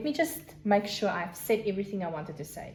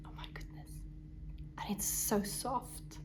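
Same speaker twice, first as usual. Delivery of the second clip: whispering; 4 semitones lower, 13 dB quieter than usual. Real, not acted. Hushed awe over soft fiber.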